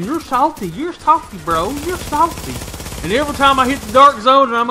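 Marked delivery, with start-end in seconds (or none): 0.0-2.5 sing-song playground taunt; mocking a five-year-old. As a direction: mimic a bratty little kid teasing. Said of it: "a damn five-year-old saying".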